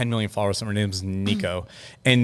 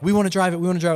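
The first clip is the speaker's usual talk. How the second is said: higher-pitched imitation of keen gamers; retold eagerness; 7 semitones higher, much faster than usual. Imitating gamers who were having so much fun, eager. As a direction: mimic an eager crowd pleading, pitched up.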